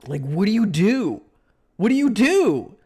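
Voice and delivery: exasperated. Real, not acted. Streamer venting to chat, exasperated cry. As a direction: throw up your hands at the chat.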